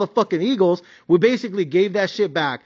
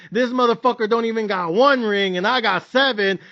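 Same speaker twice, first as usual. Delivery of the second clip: mock bragging, lightly voiced; imagined Tom Brady rant; 3 semitones higher than usual. Tom Brady secretly wanting Dak's job, mild mock bragging. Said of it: "what you really wanna say is".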